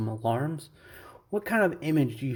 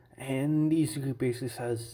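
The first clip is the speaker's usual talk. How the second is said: plain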